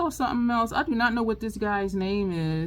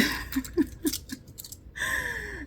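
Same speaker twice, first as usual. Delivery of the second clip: high-pitched burst of laughter; 5 dB quieter than usual. Real, not acted. Cracking up at the video.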